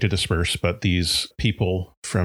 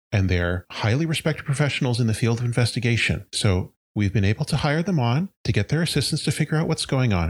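higher, reassuring mayor voice addressing townsfolk; mayor calming crowd; 4 semitones higher than usual. Acted. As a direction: soothe the crowd like a chipper small-town mayor.

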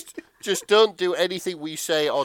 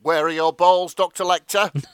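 mock outraged shout; 3 semitones higher, 7 dB louder than usual. Ramsay's line, read aloud.

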